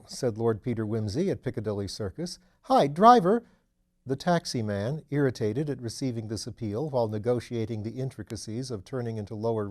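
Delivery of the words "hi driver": high, loud hail across the street; loud call to the driver; calling a cab. Acted. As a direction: shout to stop the taxi.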